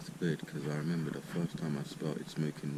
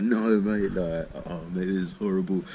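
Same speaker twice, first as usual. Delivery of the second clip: mock distress; 3 semitones higher, 6 dB louder than usual. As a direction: act out feeling awful. Distressed while high retold.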